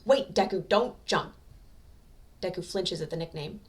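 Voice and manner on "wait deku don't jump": louder urgent call; urgent plea. A narrator's reading. Katsuki pleading with Deku at the railing, urgent. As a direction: call out to hold him back. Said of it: "Katsuki cries".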